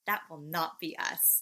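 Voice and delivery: stern teacher making a point. Retold or imitated. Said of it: "you in your teacher voice".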